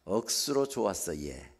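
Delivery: Gyeongsang dialect, falling away at the end; short Gyeongsang dialect demo. Shown as a demonstration. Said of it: "경상도 말로 하면".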